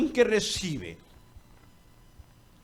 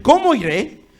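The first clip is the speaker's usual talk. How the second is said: fearful Samuel; 11 semitones higher, 14 dB louder than usual. Acted. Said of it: "Y dijo Samuel".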